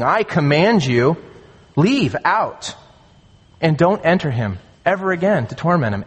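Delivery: firm, deliberate order, broken by pauses; measured, emphatic authority; authoritative command. Acted. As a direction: command it with full authority, phrase by phrase. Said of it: "They're authoritative in character".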